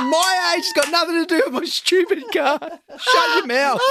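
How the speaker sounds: very high, cracking laugh-cry, slow on the end; hysterical laughing. Retold or imitated. Dad snapping at son about age, laughing hysterically. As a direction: lose it completely while telling him off.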